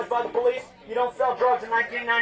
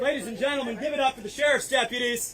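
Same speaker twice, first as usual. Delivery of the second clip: announcer; 3 semitones higher than usual. Real, not acted. Introduces deputies for crowd applause.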